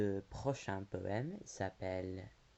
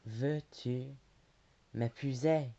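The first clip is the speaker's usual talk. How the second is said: higher, louder proposal in a poem; marriage proposal; 4 semitones higher, 6 dB louder than usual. A narrator's reading. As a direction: recite a proposal, raised and projected. Laurent's proposal voiced in poem.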